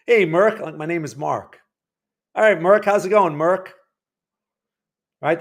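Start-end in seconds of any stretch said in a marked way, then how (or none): 0.1-0.6 lively mock greeting, a bit higher and louder; caller getting the name wrong. 2.3-3.7 lively mock greeting, louder at the start; chummy caller mispronouncing a name; caller getting the name wrong. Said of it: "someone's calling me Merck the whole time".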